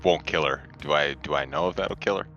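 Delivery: normal talking voice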